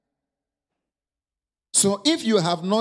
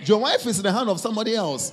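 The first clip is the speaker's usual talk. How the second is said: laughing; faster than usual. Real, not acted. Joking with the congregation.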